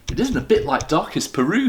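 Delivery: high, bright little bear voice; high little bear's announcement; bear announcing. Acted. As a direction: announce it proudly as a small bear. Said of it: "he announced".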